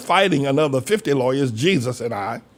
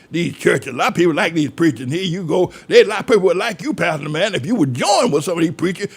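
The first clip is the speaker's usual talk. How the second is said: mock scolding critic; 4 semitones higher than usual. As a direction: lecture the pastor to stop running preachers down. Quoting critics who scold him.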